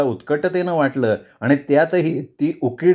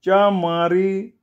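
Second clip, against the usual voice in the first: slow shocked curse; 6 semitones higher, much slower than usual. Acted. Sonya startled, cursing.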